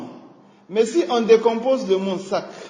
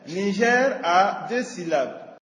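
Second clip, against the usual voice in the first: slow, clear teaching read; slower than usual. Shown as a demonstration. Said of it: "tapiez des mains à chaque syllabe".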